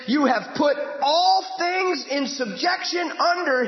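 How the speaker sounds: ringing sermon read; preaching read. Real, not acted. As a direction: drive each word home. Preacher reading scripture loudly.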